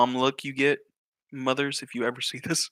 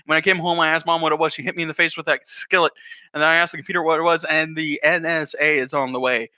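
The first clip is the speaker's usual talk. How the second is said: hurried recounting; 4 dB louder, faster than usual. Acted. Acts Billy resuming his account.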